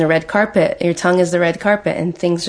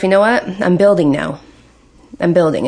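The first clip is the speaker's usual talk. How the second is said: confident self-talk; 4 dB louder than usual. Shown as a demonstration. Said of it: "just tell yourself".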